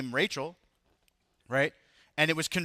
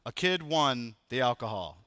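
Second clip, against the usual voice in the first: put-on kid on the mic; 5 semitones lower than usual. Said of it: "his son grabbed the mic and went".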